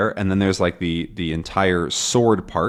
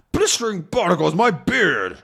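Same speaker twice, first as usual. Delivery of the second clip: Haddock; 8 semitones higher than usual. Acted. Haddock's curse, voiced.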